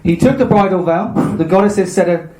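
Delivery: measured storybook reading, slightly lifted; story narration. A narrator's reading. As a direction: read the myth out evenly to listeners. Reads the myth aloud.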